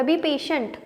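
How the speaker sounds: soft, soothing barber. Acted. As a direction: hush him down like easing an angry man. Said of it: "barber बोल रहा".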